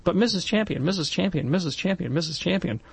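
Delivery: mock eager first grader; eager child calling. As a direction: hand up, calling the teacher's name over and over. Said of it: "and I said".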